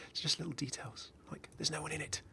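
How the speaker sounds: quiet spooky whisper. Real, not acted. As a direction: breathe it like a secret. Whispering about the ghostly armor.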